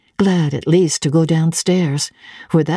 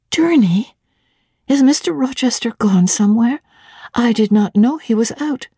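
surprised; 6 semitones higher than usual. A narrator's reading. Jane startled by the news.

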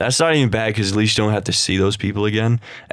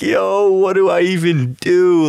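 mock panic; 8 semitones higher, 4 dB louder, slower than usual. Retold panic, shit down leg.

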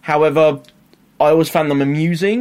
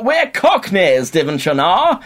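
mock posh English accent; 4 semitones higher, slower than usual. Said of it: "everyone's got a really posh voice".

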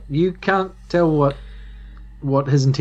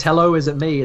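timid hello. Shown as a demonstration. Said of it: "there's one version that says".

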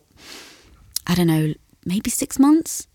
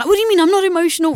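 high, fast indignant protest; retold defensive outburst, pitched way up; pushing back; 11 semitones higher, 4 dB louder, much faster than usual. Wife pushing back at husband's remark, indignant. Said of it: "you push back".

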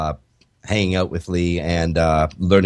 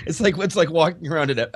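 laughing; 8 semitones higher than usual. Real, not acted.

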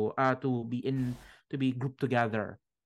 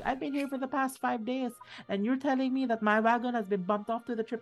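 high-pitched indignant goblin complaint; whiny little goblin demanding answers; angry goblin; 12 semitones higher than usual. Acted. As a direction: squeak out your outrage like a small goblin. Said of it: "this small goblin getting angry".

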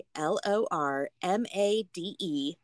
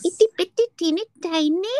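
put-on high, loud cooing baby voice; cutesy baby talk; 11 semitones higher, 8 dB louder, faster than usual. Friend coos about their tiny dorm rooms in a high squeaky voice.

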